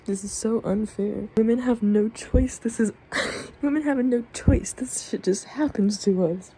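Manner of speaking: emotional, pitch rising as it goes on; real upset, emphatic complaint; really upset. Real, not acted. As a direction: protest it, upset and worked up. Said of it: "I'm being emotional right now, but I'm just really upset".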